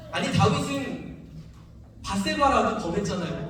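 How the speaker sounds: mild retold outcry of reproach to God; retold anguished complaint. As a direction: plead in protest, rising a little at the last question. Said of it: "막 소리를 지르면서 막 원망했어요". (원망하듯 따지는 말투 재연)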